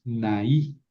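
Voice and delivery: "naí" as two syllables, stress on í; broken diphthong. Shown as a demonstration. Teacher repeats the dative, "naí" with split vowels. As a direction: keep a and í separate in "naí". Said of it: "aquí rompo el diptongo".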